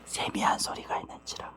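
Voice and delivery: very soft whispered reading. Shown as a demonstration. Preacher showing the congregation the still small voice, whispered. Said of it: "속삭이는 소리 있죠".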